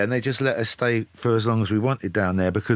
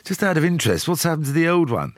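lightly put-on posh English, polite and proper; phone in a mock posh voice to hide who you are; a hint of a posh caller; posh accent. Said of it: "I put on a posh accent".

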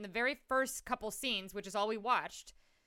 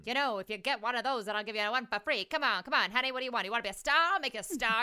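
pushy, rapid-fire saleswoman patter, a bit louder; auctioneer; 4 dB louder, faster than usual. Retold or imitated. Mocking the heroine selling ornaments, pushy auctioneer patter. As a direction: hammer the pitch like a fast-talking auctioneer. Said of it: "the auctioneer".

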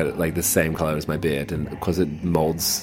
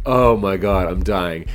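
overwhelmed delight; 3 semitones higher, 6 dB louder, slower than usual. Retold or imitated. Reacting to drag queen dream.

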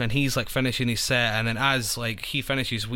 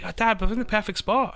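put-on much higher, whiny young voice; teen to dad, pitched-up protest; mock teen protest; 11 semitones higher than usual. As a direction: play his fifteen-year-old self. Voicing his teen self.

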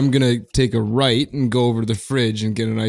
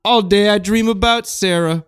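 cool cat showing off his pants; hip jazz cat voice; 8 semitones higher than usual. Acted. Plays a singer's character.

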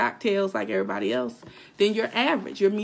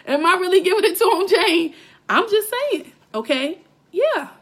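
high, fast and loud with a laugh; laughing, excited; 8 semitones higher, 5 dB louder than usual. Real, not acted. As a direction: tease while laughing at herself. Laughs at her own fired-up rant.

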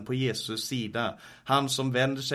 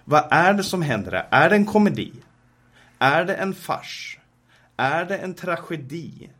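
higher and louder, pressing the questions; preacher asking the congregation, higher and louder in rising urgency; rising rhetorical questions; 7 semitones higher, 6 dB louder than usual. Real, not acted. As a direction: demand an answer from the crowd.

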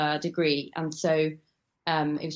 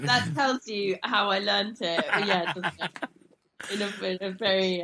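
laughing; 4 semitones higher than usual. Real, not acted. Laughs at her own joke.

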